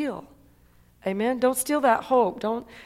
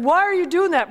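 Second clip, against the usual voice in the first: amused question; 7 semitones higher, 5 dB louder than usual. Retold or imitated. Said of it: "and I said".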